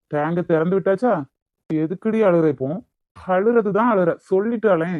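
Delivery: heated, exasperated demands; angry. Acted. Lover demands to know why the crying won't stop, angry. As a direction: press them for an answer, temper rising. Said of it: "இப்ப எதுக்கு இப்படி கோவப்படுறீங்க?".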